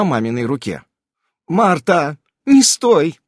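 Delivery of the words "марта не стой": higher, louder brisk command; giving orders. A narrator's reading. Irene gives Marta another order, urgent and commanding. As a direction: order her to move, urgently. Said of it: "отдала ещё одно распоряжение Ирен".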